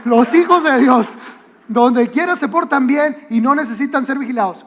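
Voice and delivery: mock motherly reminder, projected; insistent mother repeating. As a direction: call the motto after departing kids. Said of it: "lo repetía como, como así".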